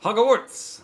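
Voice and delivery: Good day in a laughing, put-on Australian accent; light, laughing imitation of an Australian accent; mock Aussie accent. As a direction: toss off a cheeky Aussie greeting. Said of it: "that's an Aussie thing".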